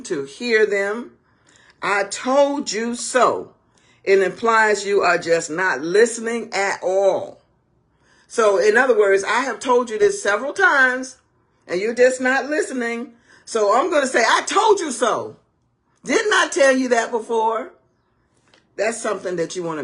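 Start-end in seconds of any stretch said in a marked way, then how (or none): 1.8-3.5 smug. Pretend. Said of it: "in that tone, in that way". 9.2-17.7 exasperated. Pretend. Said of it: "in that tone, in that way".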